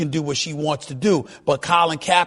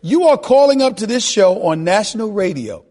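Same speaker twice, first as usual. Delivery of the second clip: loud, high-pitched incredulous scolding; exasperated radio-host outburst; indignant raised voice; 7 semitones higher, 5 dB louder than usual. Real, not acted. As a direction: talk over the caller, voice raised. Host incredulously scolds caller over him.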